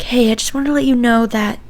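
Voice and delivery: lightly imitating a relative's hushed complaint; hushed aside. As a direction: lean in and say it quietly. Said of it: "whispers to me".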